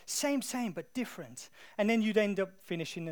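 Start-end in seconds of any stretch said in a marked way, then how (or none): 0.1-1.5 imitated Thai accent, starting high and loud; attempted Thai accent. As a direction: repeat the catchphrase in an amateur Thai accent. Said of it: "That was the best accent I could do".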